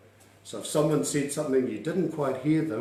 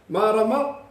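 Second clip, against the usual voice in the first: "Marama" higher, rising at the end; "Marama" pitched up into a question; asking intonation; 6 semitones higher than usual. Shown as a demonstration. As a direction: check they got it with a lifted "Marama". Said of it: "It's like you're asking the question".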